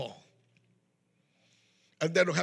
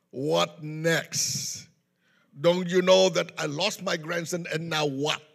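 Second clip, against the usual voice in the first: irritated grandfather; 6 dB louder, slower than usual. Retold or imitated. Grandfather confronts witch doctor.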